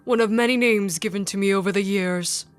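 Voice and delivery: cryptic, measured game villain; slightly put-on mysterious character; lightly voiced Collector. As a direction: play a knowing, teasing stranger lightly.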